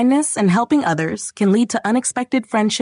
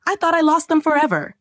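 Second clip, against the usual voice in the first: high-pitched excited outburst; overjoyed giant, voice leaping high; giant's joyful exclamation; 9 semitones higher than usual. A narrator's reading. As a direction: exclaim it with relieved joy, pitched way up. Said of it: "exclaimed the giant".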